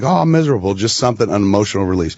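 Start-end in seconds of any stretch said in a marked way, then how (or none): 0.0-0.7 higher-pitched pretend misery; mock miserable crying. Explaining what kind of crying he doesn't mean, mock misery. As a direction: lightly imitate a miserable cry. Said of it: "crying like".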